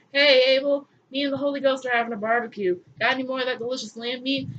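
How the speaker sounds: quick, casual put-on God; lightly hammed God; mock breezy God. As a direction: call out like a friendly host. God calling for Abel.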